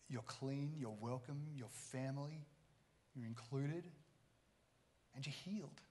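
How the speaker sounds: soft, gentle, slowing reassurance; tender reassurance. Retold or imitated. Jesus gently tells the healed woman she is welcomed, softly. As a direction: lay each blessing down softly, like comfort.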